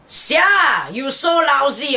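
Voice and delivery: Singlish. Shown as a demonstration. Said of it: "Now you can say".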